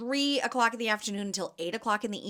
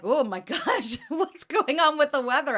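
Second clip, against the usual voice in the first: higher, louder, half-laughing disbelief; mock dismay; 7 semitones higher, 5 dB louder than usual. Vendor re-enacting her reaction to crazy weather, mock dismay. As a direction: exclaim in exaggerated bafflement.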